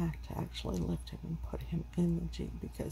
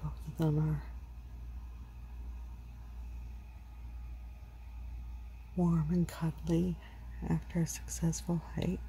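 whispering. Real, not acted. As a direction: hush it so they sleep. Whispering beside sleeping dogs.

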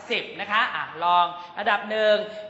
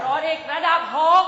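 angry level six; 4 semitones higher, 4 dB louder than usual. Shown as a demonstration.

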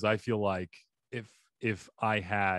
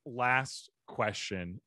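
Christopher Walken. Pretend. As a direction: drag the words out in a lightly voiced Walken cadence. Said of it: "I'm like Christopher Walken here".

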